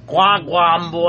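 bad Jamaican accent. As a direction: copy the Jamaican accent clumsily. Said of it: "you're starting to sound like Japanese".

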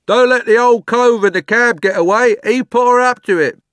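high, very loud shout from the crowd; calling out. A narrator's reading. Bystander alerting police to the cab passenger, shouting. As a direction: yell a warning over everyone. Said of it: "someone else called out".

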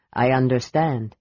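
low, grave dragon voice. A narrator's reading. Dragon answers the kender, low and grave.

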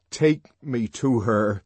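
slow, steadied voice; forced ordinary tone. Acted. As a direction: hold the voice steady with effort. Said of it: "making an effort to speak in an ordinary tone".

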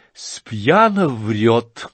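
teasing. Acted. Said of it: "как бы поддразнивая его".

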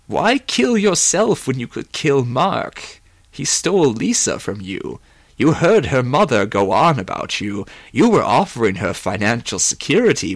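a lightly voiced, persuasive schemer; scheming tempter. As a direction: goad him with swooping, emphatic pitch.

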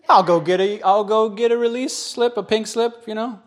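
high, pushed-up petulant retort; huffy protest. Retold or imitated. Preacher agreeing to ask Jesus for release, high huffy protest. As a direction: complain it high, starting loud.

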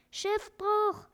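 high, loud alarmed cry of a parrot; parrot screaming. Acted. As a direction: shriek the warning to all aboard. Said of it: "schrie der Papagei". (schriller, lauter Papageienschrei)

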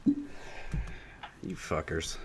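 slow breathy whisper; whispered curse. Pretend. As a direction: hiss it out slowly under your breath. Mock curse at friends.

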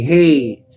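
"Hey" stretched out, standing in for hedge; dialect pronunciation of Hedge. Shown as a demonstration. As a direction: let Hedge slide into a long "Hey". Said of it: "like that".

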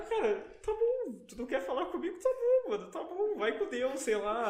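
high, laughing brush-off; mock-sweet go-away voice; dismissive retort. Retelling his dismissive reply.

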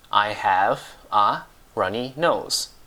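"I have a runny nose" slowly, a small gap after each word; slow word-by-word model. Shown as a demonstration. Teacher repeats the English for a dripping nose, slow separated "I have a runny nose".

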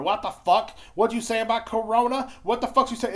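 high loud offended yelling; mock outrage. Mocking race baiters defending Corona, loud indignant yell. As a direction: play the outraged college kid. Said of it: "race baiters are going".

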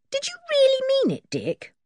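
put-on high, quick girl asking; eager little girl's question; Anne's girlish voice. Anne asking Dick eagerly, high and quick.

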